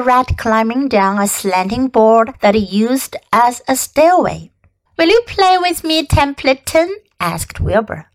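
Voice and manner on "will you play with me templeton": put-on eager young pig. Wilbur pleads with rat.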